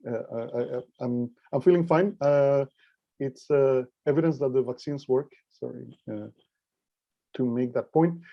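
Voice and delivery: weak voice, just getting over covid. Real, not acted. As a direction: speak with a weak, tired voice. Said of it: "my voice is going to be a little bit, um, weak".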